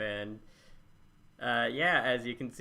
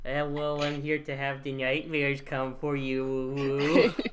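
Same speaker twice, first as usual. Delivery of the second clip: uwu voice; 2 semitones higher, 3 dB louder than usual. Pretend. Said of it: "don't you get me doing my uwu voice".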